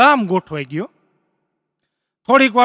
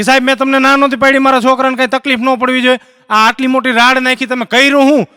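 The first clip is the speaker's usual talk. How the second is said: raised, indignant mother's voice, lightly acted; mock outrage; 3 semitones higher, 3 dB louder than usual. Mother grabs doctor after the scream, indignant. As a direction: confront the doctor in mild mock fury.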